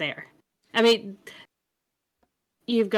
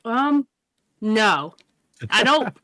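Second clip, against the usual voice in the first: ice in mouth; slower than usual. Real, not acted. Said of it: "because I put a piece of ice in my mouth".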